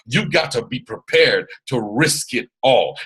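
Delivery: slow, emphatic, committed declaration; slow it down and mean every word. Real, not acted. Coach pushing listeners to go all in, committed. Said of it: "notice how I'm saying that".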